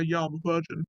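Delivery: understated, matter-of-fact admission; low-key honest answer. Acted. Answering someone who asks, low-key and matter-of-fact. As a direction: admit it plainly, only because asked. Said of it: "if someone asks you if you're a virgin, you say".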